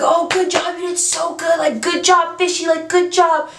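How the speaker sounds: imitating chirpy well-wishers; cheery congratulations. People patting her back.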